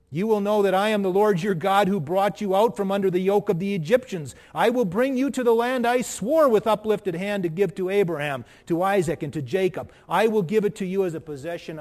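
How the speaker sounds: loud, ringing scripture proclamation; preaching at full force. Acted. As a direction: thunder it out to the congregation.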